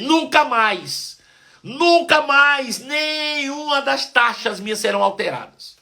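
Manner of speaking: a preacher shouting back at the devil, defiant. Retold or imitated. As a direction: defy the devil at the top of your voice. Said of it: "agora você vai ouvir poucas e boas".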